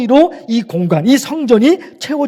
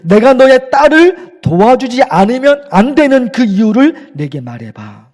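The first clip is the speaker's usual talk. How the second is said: God's questioning voice; 3 dB louder than usual. Retold or imitated. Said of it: "하나님께서 그러시는 것 같아요".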